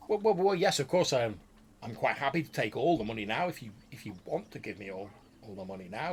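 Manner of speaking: the wizard quickly agreeing to take all the money; eager wizard voice. Acted.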